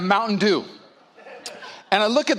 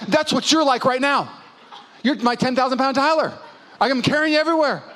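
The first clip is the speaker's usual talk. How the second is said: high-pitched acted complaint; exasperated wife; 6 semitones higher than usual. Wife telling her ten thousand pound husband off, exasperated.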